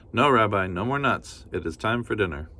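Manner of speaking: a hint of a cheerful granny; kindly grandmother. Baba Brena thanking the bear, lightly voiced granny.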